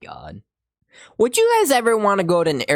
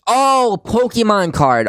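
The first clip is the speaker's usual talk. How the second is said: surprised; 7 semitones higher, 6 dB louder, slower than usual. Real, not acted. Surprised at the card.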